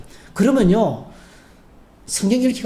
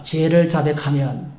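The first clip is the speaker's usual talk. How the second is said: slow, measured line for the congregation to echo; slow call to repeat; 4 semitones lower, slower than usual. Shown as a demonstration. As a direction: lead the response slowly. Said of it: "한번 고백합시다". (따라 하도록 천천히 선창)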